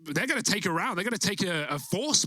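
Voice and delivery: excited casting. Real, not acted. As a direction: still high, winding down. Caster coming down after the play.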